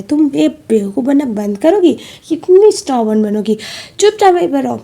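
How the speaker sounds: retold telling-off, building to a loud, high order; scold, then order firmly as storyteller; exasperated scolding. Sheela telling stubborn Min to stay put, exasperated scolding.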